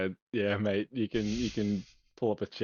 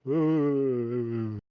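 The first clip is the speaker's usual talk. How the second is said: teeth chattering from cold; shivering; 2 semitones higher, 4 dB louder than usual. Shown as a demonstration. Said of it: "like I'm really cold, like, my teeth are chattering".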